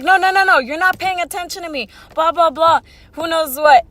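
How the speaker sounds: mock his impatient complaint, pushing the first words; getting mad. Angry customer scolds the meat counter worker, retold as irritated mimicry. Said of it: "like, and getting mad".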